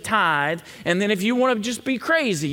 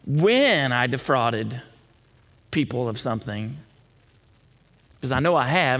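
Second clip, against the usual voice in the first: sincere confession; 5 semitones lower than usual. Acted. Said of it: "This isn't sarcasm".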